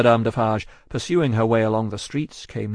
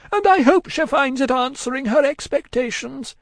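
high, loud, frantic woman; distracted cry; 5 dB louder than usual. A narrator's reading. Miss Pross hushing Cruncher's speech, distracted. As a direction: cry out frantically, pitched far up. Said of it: "cried the distracted Miss Pross".

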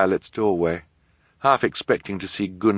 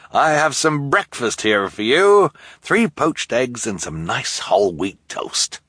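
kindly host voice; 6 semitones higher, 4 dB louder, slower than usual. Acted. Jerome offering breakfast.

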